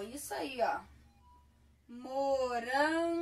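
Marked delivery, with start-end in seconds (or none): 1.9-3.2 slow dictation. Shown as a demonstration. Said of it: "teacher dictating word slowly".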